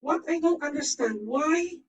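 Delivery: digitally filtered voice. Real, not acted. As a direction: talk through a voice changer. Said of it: "I need to use my voice filter".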